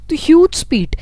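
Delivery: hushed, amazed aside; awed whisper. Real, not acted. Teacher marvels at light's speed to students, whispered. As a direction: breathe it out in a whisper.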